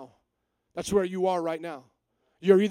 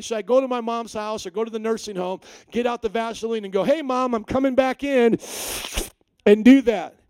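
louder, rising to a hammed-up call into the house; mock Nicodemus joke; 3 semitones higher, 7 dB louder than usual. Preacher joking as Nicodemus calling to his mom, hammed-up. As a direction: play the confused son calling his mom. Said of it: "my little joke".

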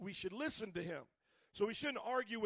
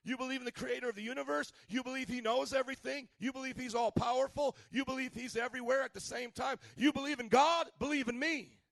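higher and rising to a loud peak on God; building proclamation; 4 semitones higher, 4 dB louder than usual. Acted. Preacher voicing Jesus challenging listeners, building louder. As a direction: stack the questions until they burst. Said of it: "But Jesus talks like that".

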